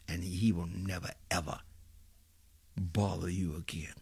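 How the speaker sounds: ominous hushed whisper. Real, not acted. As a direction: drop to an unvoiced whisper. Grim prediction told in hushed tone.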